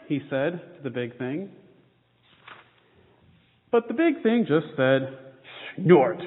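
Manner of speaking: lively storybook reading with small character voices; reading to children. A narrator's reading. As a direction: read the picture book to the kids with gentle expression. Reads children's picture book aloud.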